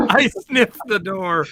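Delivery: high, loud, stretched-out echo; joke catchphrase. Pretend. Friend echoing the T-shirt slogan, mock-proclaiming. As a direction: draw it out like a silly slogan.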